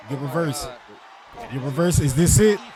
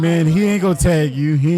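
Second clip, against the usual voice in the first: louder, insisting at the screen; loud yell; 6 dB louder than usual. Real, not acted. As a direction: shout it at the player. Yelling at the match on screen.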